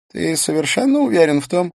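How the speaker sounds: high, tense voice of a shocked man; shaken man voice. A narrator's reading.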